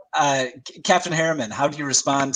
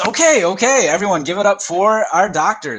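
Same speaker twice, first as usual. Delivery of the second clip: eager emcee; 6 semitones higher than usual. Acted. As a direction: whip up the crowd for the doctor. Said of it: "and he says".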